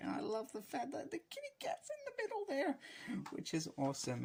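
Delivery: voice going squeaky. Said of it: "my voice went very squeaky".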